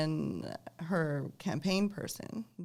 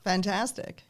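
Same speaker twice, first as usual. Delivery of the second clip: demo enthusiasm; 3 semitones higher, slower than usual. Shown as a demonstration. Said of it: "Oh, was that good?".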